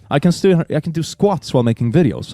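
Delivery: mock an empowered quirky influencer; boss babe. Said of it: "empowered, quirky boss babe".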